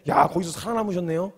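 mock admiration, re-enacted; sarcastic praise. Preacher jeering at the remaining church members, sarcastic praise. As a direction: congratulate them with a jeering edge. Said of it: "제가 막 이 비아냥거리고 놀리다가".

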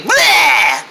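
goofy tongue-out bleh; silly bleh. Shown as a demonstration. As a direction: blurt a funny-face bleh. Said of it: "Help us make funny faces".

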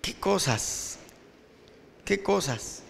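quiet rueful musing; soft rueful sigh. Real, not acted. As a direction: murmur it to yourself in dismay. Preacher muses over betrayal.

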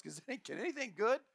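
rising, mocking disbelief; skeptical sneer. Nathanael doubting Philip's news, sarcastic scoff. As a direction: scoff at the hometown. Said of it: "Nathanael's response was".

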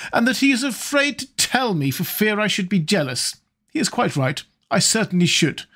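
put-on high, arch old lady; teasing old hostess. A narrator's reading. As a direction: needle him like a coquettish dowager. Lady Narborough teasing at dinner.

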